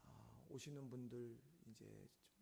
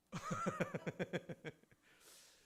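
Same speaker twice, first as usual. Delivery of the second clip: loud, high burst of laughing; hearty rattling laugh; real laughter; 5 semitones higher, 8 dB louder than usual. Real, not acted. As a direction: laugh out loud at your own joke. Laughs after joking with congregation.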